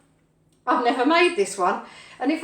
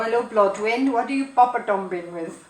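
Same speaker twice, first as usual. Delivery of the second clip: wandering mock Welsh lilt; attempted Welsh accent. Shown as a demonstration. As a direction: have a bad go at a Welsh accent. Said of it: "I try new accents and my accents always change".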